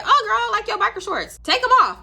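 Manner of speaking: high, bright mock girl voice with a laugh; teasing high voice breaking into a laugh.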